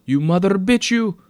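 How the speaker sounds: very loud, high-pitched cursing; angry shout. A narrator's reading. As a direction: yell the insult furiously. Attendant hurls insult in shouting match.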